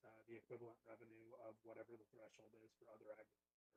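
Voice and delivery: faint and far from the microphone; very quiet. Real, not acted. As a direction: talk too softly, drifting away. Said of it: "Andrew, you're really quiet".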